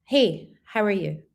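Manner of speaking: unhurried greeting with a pause after Hey; measured demo of a clear greeting; slow, clear greeting. Shown as a demonstration. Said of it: "say it slowly".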